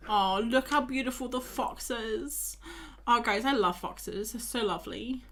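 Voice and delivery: slow, cooing admiration; adoring. Real, not acted. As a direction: gush over something cute. Admiring the fox picture.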